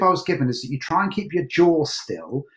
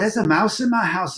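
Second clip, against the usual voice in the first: higher, put-on Scottish accent; 4 semitones higher than usual. Shown as a demonstration. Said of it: "in Scottish accent".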